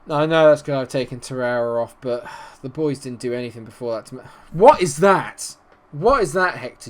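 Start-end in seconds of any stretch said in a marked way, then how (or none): 4.5-6.9 high, loud and drawn-out disbelief; exasperated outburst. Real, not acted. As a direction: shout it at the player who messed up. Angry at his defender's mistake.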